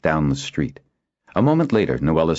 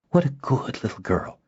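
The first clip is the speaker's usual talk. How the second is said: high, soft coo to a pet; softly doting, high voice; cooing praise; 8 semitones higher, 3 dB quieter than usual. A narrator's reading. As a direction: praise a pet tenderly, pitched up. Praising the creature she strokes.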